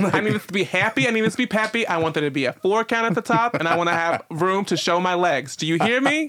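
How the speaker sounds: high, demanding Jersey diva; Jersey accent. Pretend. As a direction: boss the songwriters around in a Jersey accent. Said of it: "we give her a Jersey voice".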